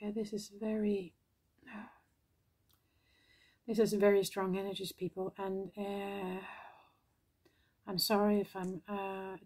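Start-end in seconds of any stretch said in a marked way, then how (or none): 0.0-6.4 holding back tears, quiet; after crying. Real, not acted. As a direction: voice thick with tears, overwhelmed. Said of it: "teary-eyed".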